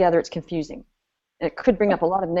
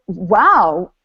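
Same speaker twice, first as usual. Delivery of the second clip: impressed wow; 2 semitones lower, 6 dB louder than usual. Retold or imitated. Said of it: "And they go".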